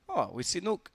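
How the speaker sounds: a hammed-up French accent, pitched high; bad French accent. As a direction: imitate a player with a poor French accent. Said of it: "that was not a very good French accent".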